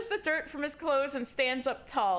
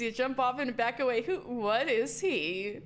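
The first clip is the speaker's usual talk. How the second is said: usual speaking voice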